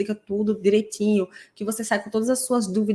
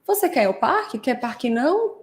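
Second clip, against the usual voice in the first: put-on child's echolalic echo; 3 semitones higher than usual. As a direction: echo the question back like a child. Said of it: "ela ecoa muito o adulto".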